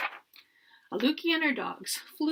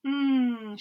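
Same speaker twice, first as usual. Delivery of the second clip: contented mmm; 7 dB louder than usual. A narrator's reading. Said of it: "she said".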